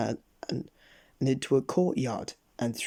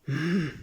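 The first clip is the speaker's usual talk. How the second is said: rude sniff; 3 semitones higher than usual. A narrator's reading. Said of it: "sniffed Mister Uppity rudely".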